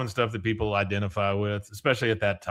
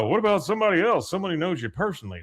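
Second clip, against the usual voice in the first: rushed; 6 semitones higher, much faster than usual. Retold or imitated. Hank suggests, rushed.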